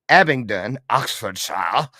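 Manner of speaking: slow, exaggerated Oxfordshire accent; attempted British accent. Shown as a demonstration. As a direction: have a clumsy go at a British accent. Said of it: "try to do an accent".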